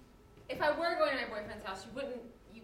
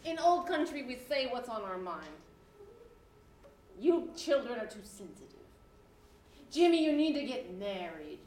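lightly voiced old-country grandma; a hint of a blunt, bossy granny; foul mouthed granny; 7 dB louder than usual. Holds the Grandma voice for many lines.

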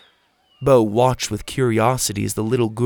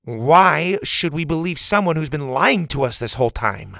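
a touch of raised anger; angry; 5 semitones higher than usual. Acted. Bo accuses Pa of lying, angry. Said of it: "he was too angry".

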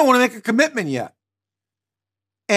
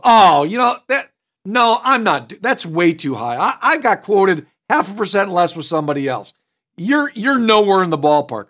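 combative customer. Shown as a demonstration. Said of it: "They're not one bit afraid to light you up".

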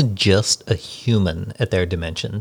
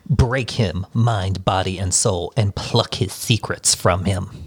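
creepy voice; slower than usual. Acted. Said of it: "That was a nice, creepy voice".

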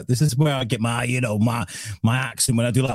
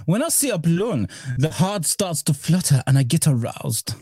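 dubbing voice; 4 semitones higher than usual. Retold or imitated. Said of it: "German would be".

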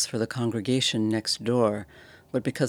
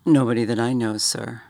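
Cockney bellhop; 5 dB louder than usual. Acted. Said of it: "Thomas's Cockney dialect".

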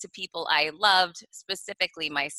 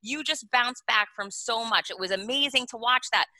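encouraging self-talk; 2 semitones higher than usual. Retold or imitated. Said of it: "the tape I wanted to play".

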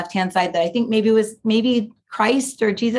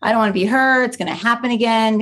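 defiant protest; 4 semitones higher than usual. Retold or imitated. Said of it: "talking like a pirate".

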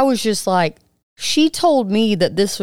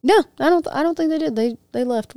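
cartoon character going downhill; 7 semitones higher, faster than usual. Real, not acted. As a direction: start way high, then slide down. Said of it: "you sound like a f-, cartoon character going down a hill".

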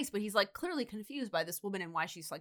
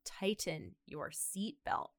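voice in her head; 7 dB quieter, much slower than usual. Retold or imitated. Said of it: "she hears the woman's voice in her head".

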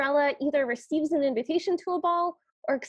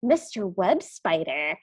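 gossiping spider; 5 semitones lower than usual. Retold or imitated. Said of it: "one of them goes".

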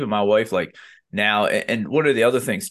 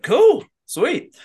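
high, quick bro approval, cool then sweet; breezy bro approval; 6 dB louder than usual. Retold or imitated. Podcast host voicing guys casually accepting a short answer. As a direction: toss it off like the chat is done.

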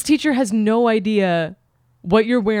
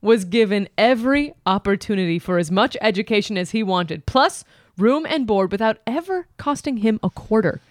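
letter reading. Acted. Reads Dear Abby letter aloud.

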